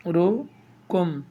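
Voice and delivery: slow, broken-up reading with a pause after each syllable. Shown as a demonstration. Teacher to viewers, reading the hadith in slow separate syllables. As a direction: sound out each piece of the hadith alone. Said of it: "ভেঙে ভেঙে পড়া".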